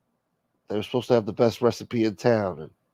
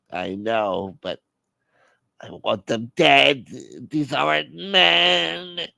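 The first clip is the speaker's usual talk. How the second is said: vengeful brooding caller; 4 semitones higher, much slower than usual. Acted. Caller wants revenge in skit.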